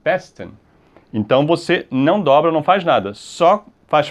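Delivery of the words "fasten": fasten said FAS-ten, tailing off; stress on first syllable. Shown as a demonstration. Teacher repeating the right form, fasten stressed on FAS. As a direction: stress FAS and let the rest of fasten drop. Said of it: "é a primeira aqui".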